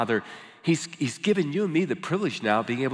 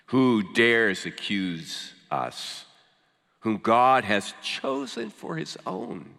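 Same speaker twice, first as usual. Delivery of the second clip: measured scripture reading with long pauses between phrases; slow, careful reading; 2 semitones lower than usual. Real, not acted. Preacher reads Romans to the congregation, slowly and carefully. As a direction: read slowly, letting each phrase land. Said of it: "read it kind of slowly and carefully".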